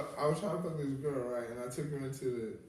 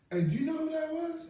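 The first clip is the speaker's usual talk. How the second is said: desk lady; 13 semitones higher, 4 dB louder than usual. Retold or imitated. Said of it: "the lady at the desk goes".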